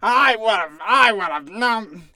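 retelling coworkers' outrage, loud and slow; outraged bartenders. Retold or imitated. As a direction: play the bartenders losing it, loud and drawn out. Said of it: "everybody was like".

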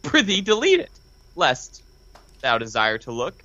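mock Shakespearean reading; hammy stage actor. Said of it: "I'm gonna read it for the listeners".

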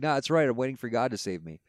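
high, breezy refusal; lightly voiced stubborn believer; stubborn man on roof. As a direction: brush off the help cheerfully.

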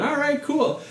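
high-pitched, breezy act of going along; mock drunken agreement. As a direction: pitch it up, playing tipsy and agreeable. Acting drunk at grandma's.

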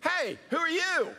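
high-pitched imitation of a kid; kid's question. Kid in the elevator asking the pastor, high imitated voice. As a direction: pipe up like a curious kid. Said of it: "the kid says".

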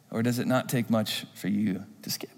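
whispered, soft challenge; hushed pointed question. Real, not acted.

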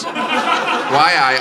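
low, tentative Geordie accent. Shown as a demonstration. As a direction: reset yourself into a shaky Geordie attempt. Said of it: "I've got to get back in the accent".

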